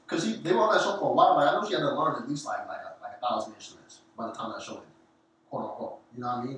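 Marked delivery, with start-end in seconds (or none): 5.5-6.0 whispered aside. Real, not acted. Aside after a thousand instruments.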